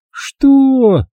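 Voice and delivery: sharp high outraged what; indignant. A narrator's reading. Olga outraged at the accusation of theft. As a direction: explode in indignation. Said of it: "возмутилась она".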